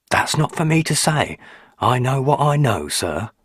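lightly voiced old country housekeeper, polite; a hint of a respectful old servant woman; old housekeeper politely answering her master. A narrator's reading. Mrs Dorman evasive.

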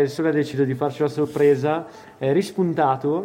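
talking with a head cold; congested, blocked-nose voice; stuffy nose. Real, not acted. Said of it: "Scusate, sono un po' raffreddato". (naso chiuso, raffreddato)

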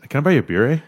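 a starstruck fan offering a beer; Canadian fan. Retold or imitated. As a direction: fan after the show, buying a beer. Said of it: "just the way he sounded".

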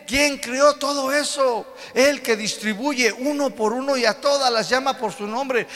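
God commanding them to look up, high and loud. Acted. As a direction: proclaim as God, grand and loud. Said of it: "Versículo veintiséis dice".

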